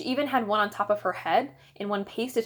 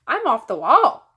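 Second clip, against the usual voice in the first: louder, higher boast; proud announcement; 4 semitones higher, 9 dB louder than usual. A narrator's reading. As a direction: show off to Dad. Proud child announcing to Dad.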